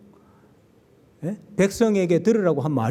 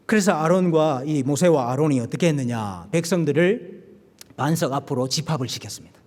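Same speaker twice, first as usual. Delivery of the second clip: normal talking voice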